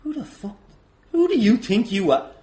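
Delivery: usual speaking voice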